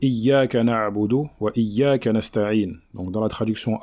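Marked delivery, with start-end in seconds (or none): 0.0-2.7 slow measured Quranic recitation. Shown as a demonstration. Teacher recites the verse for students, slow and measured. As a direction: recite the verse slowly and carefully.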